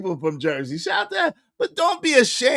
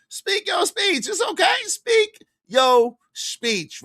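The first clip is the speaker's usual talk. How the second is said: speak your speech; 7 semitones higher, slower than usual. Acted. Urging viewers to speak up.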